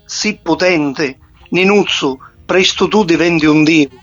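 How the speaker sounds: poem recited in Sicilian dialect. Acted. (poesia recitata in dialetto siciliano)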